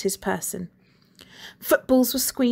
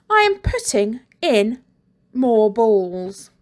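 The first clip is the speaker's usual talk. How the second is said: gloating teacher; 5 dB louder, slower than usual. Acted. Teacher gloating over balls.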